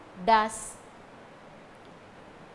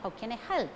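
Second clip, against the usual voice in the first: "can" kept unstressed, "help" carrying the stress; weak can; 4 dB quieter, much faster than usual. Shown as a demonstration. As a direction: pass lightly over "can". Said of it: "These words also do not carry stress".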